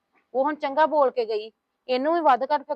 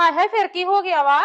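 high, loud exclamation of dismay; loud protest; 5 semitones higher, 7 dB louder than usual. Acted. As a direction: protest loudly to keep the guest. Protesting as the visitor leaves. (ਉੱਚੀ ਸੁਰ ਵਿੱਚ ਹਾਏ-ਹਾਏ ਕਰਕੇ)

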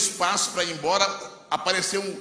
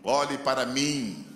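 calm command; 3 semitones lower, much slower than usual. Retold or imitated. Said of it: "Ele repetiu".

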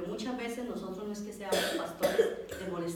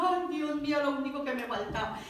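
mildly whiny retold lament; tearful lament; 4 semitones higher than usual. Crying woman laments to God about the stranger, tearful lament. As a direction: moan it as if in tears. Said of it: "Y yo más lloraba".

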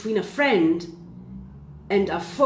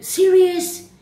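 higher and louder, incredulous disbelief; 4 semitones higher, 4 dB louder, slower than usual. Retold or imitated. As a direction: act stunned by a tiny offer, half mocking. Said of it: "You're like".

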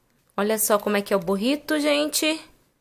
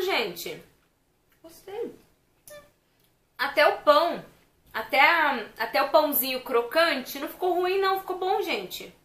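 chewing while talking; talking between bites; mouth full of food; 3 semitones higher than usual. Real, not acted. Seen 0: Bites burger at -3, chews with fingers at lips while talking.

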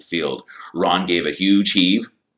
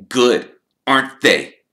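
smooth; 6 semitones higher, 7 dB louder than usual. A narrator's reading. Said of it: "said Malfoy smoothly".

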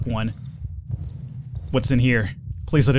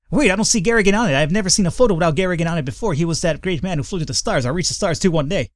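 fast, higher excited tweaker; twitchy slurred sniffing addict; 4 semitones higher, faster than usual. Acted. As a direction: babble dreamily like an addict. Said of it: "my tweaker voice".

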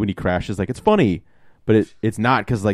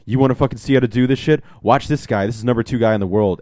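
cocky coach; 3 semitones higher, 4 dB louder than usual. Retold or imitated. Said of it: "Hugh Jackman's like".

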